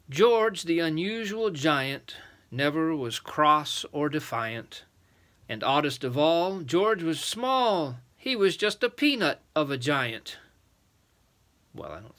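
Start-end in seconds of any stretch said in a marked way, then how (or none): 0.1-10.4 lilting, measured storybook rhyme; rhyming verse reading. A narrator's reading. Adult reading a rhyme about George, lilting verse.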